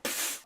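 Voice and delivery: short unvoiced gunshot puff; imitated gunshot. Imitates the gun going off.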